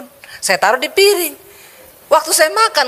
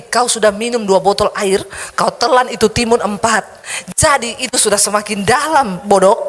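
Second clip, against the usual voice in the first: devil taunting. Retold or imitated. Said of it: "setan bilang gini".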